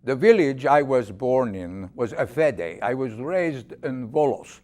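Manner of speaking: put-on lightly accented old Greek immigrant, a touch of drama; a hint of a Greek accent as he remembers home; James, Greek immigrant. Ninety-six-year-old immigrant recalls leaving Greece for America, lightly Greek-accented dramatic reading. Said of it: "give us a glimpse of that dramatic reading".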